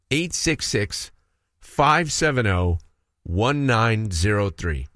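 each digit read slowly and clearly; slow, spaced-out number. Shown as a demonstration. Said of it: "put that on speed dial".

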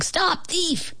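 barked. A narrator's reading. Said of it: "he barked".

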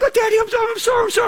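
very high, squealing apology; frantic daughter. Retold or imitated. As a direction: shriek sorry like a panicked kid. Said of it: "it's just like".

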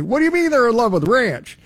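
high, incredulous imitation of a buddy; Brandon. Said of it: "And he's like".

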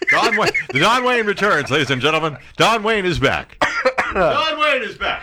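hammed-up ringmaster welcome; mock announcer. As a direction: announce him like a showman. Announcing the colleague's return.

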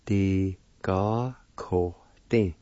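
Ti ga ko tin said slowly and clearly, syllable by syllable; careful pronunciation. Shown as a demonstration. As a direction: model the word so learners can copy it. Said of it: "is pronounced like this".

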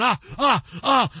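acted-out hot "ah" noises; imitated pained yelps. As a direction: yelp as if feeling the heat. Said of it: "and it's all hot".

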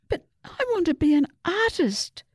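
high, pleading wail; a child's protest, mildly wailed. A narrator's reading. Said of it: "Susie wailed".

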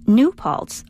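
"New Paltz" with the emphasis on New; NEW Paltz, first word stressed. Shown as a demonstration. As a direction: lean on New, lighter on Paltz. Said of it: "where emphasizing the new is correct".

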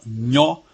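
"nho" set apart as a syllable; teacher sounding out "nho"; secondary stress. Shown as a demonstration. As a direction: isolate "nho" clearly for the listener. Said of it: "sílaba subtônica".

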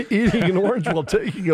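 laughing through the words; amused disbelief. Real, not acted. Host reacting to the bathtub orange law, amused disbelief. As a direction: repeat it through a laugh, quickly.

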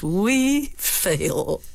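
scornful dismissive put-down; contemptuous. Shown as a demonstration. Lady Macbeth contemptuously dominating her timid husband. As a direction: crush his doubt with contempt. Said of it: "with a contemptuous".

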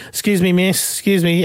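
lightly voiced woman hailing a passer-by; imitating stranger's appeal. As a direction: pitch up to get someone's attention. Stranger trying to stop passer-by.

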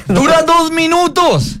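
high-pitched. Real, not acted. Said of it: "me dio mucho escalofrío".

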